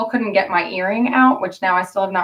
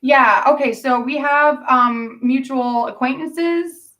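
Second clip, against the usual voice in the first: imitating Priscilla; 5 semitones higher, slower than usual. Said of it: "And she goes".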